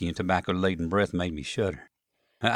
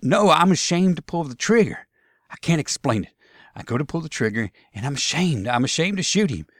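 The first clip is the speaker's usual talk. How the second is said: higher, louder Southern protest; anguished Southern soldier; 7 semitones higher, 5 dB louder than usual. Acted. Jeb ashamed to shoot the officer, anguished. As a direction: insist desperately that you cannot do it.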